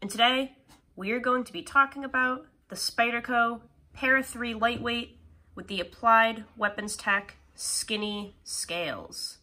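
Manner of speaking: stuffy nasal voice from a cold; nasally voice. Real, not acted. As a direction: talk through a blocked nose. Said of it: "Excuse me for my kind of nasally voice".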